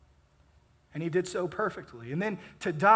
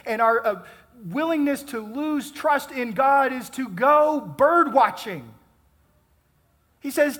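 louder, higher, driving sermon voice; fervent preaching; 6 semitones higher, 6 dB louder than usual. Acted. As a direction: preach it out to the congregation with force. Preaching builds to full force.

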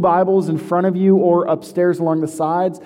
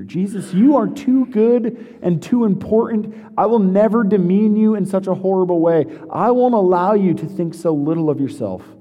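mock-righteous protest, pitched higher; a lightly voiced, indignant Peter; pious Peter; 6 semitones higher than usual. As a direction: ham up a self-righteous disciple. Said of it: "Look at the holy righteousness in Peter".

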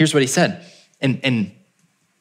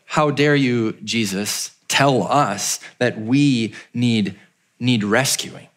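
offended townsfolk; 3 semitones lower, much slower than usual. Retold or imitated. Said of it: "a dark question ... being offended".

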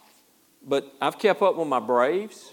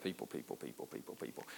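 very low, barely audible grumble; mumbling under breath; 14 semitones lower, 22 dB quieter, faster than usual. Retold or imitated. Little girl stomping in from the school bus, mumbling. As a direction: grumble it to yourself, imitating a fed-up girl. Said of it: "she's kinda mumbling under her breath".

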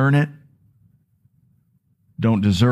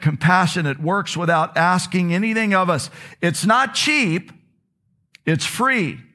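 impassioned reading; 3 semitones higher than usual. Acted. Preacher reading a book passage to his church, building fervour. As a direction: read the passage to the congregation with growing fervour.

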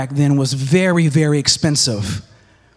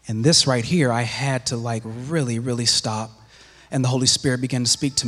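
much softer and lower, drawing them in; hushed; 5 semitones lower, 6 dB quieter than usual. Real, not acted. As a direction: drop to a near hush for the confession. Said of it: "confessing the moment he stopped".

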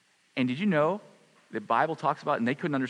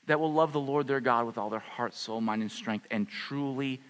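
gentle prayer. Acted. Prayerful closing.

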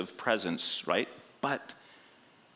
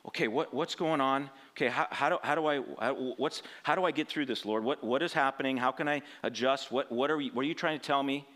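voicing Cain; 3 semitones higher, faster than usual. Cain voiced questioning God.

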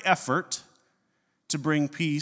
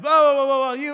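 mock tirade, pitched up and loud; mock angry outburst; 9 semitones higher, 8 dB louder than usual. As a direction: imitate a loud, high burst of ranting. Imitating friend's angry cursing outburst.

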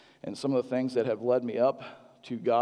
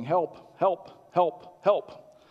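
pleading calls for help, climbing higher and louder; mild mock plea; imitating a confused patient; 6 semitones higher, 4 dB louder, much slower than usual. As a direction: echo the old man's helpless calling. Dementia patient calling for help.

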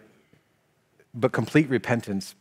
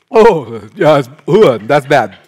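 mock repeated disgust; 3 semitones higher, 11 dB louder, slower than usual. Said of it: "insane for me to just keep".

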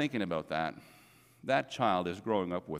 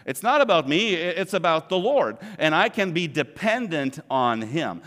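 loud, higher proclaiming of faith; emphatic declaration; 7 semitones higher, 6 dB louder than usual. Acted. Preacher to congregation, repeating the creed as a loud proclamation. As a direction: declare it with full conviction.

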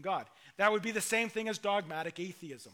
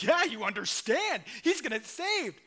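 eager, rising higher at the end; excited believer; 4 semitones higher, 4 dB louder than usual. Retold or imitated. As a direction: gush like you've finally won him over. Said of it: "you're excited".

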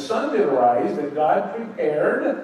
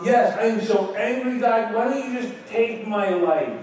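higher, pleading, fed-up Jonah begging God; exasperated Jonah; 5 semitones higher than usual. Retold or imitated. Jonah, angry over the gourd, tells God to take his life: exasperated higher plea. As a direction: throw up your hands and beg God to end it.

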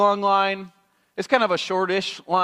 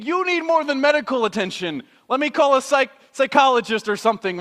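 incredulous friend; 6 semitones higher than usual. Retold or imitated. Friend appalled at the rider, high and exasperated. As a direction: tell them they need real help, appalled. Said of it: "You would probably be thinking".

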